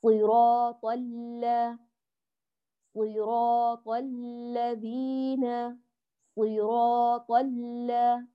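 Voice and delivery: slow recitation, the L held then released into its vowel; full-measure doubled lam. Shown as a demonstration. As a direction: recite صراط الذين slowly with a sustained double L. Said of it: "هكذا أخذ المشدد حقه".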